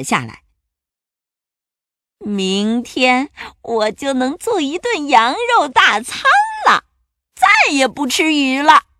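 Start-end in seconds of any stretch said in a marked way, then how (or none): 2.2-8.9 gloating monster. A narrator's reading. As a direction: savour each word like a greedy monster. Monster gloats before falling asleep.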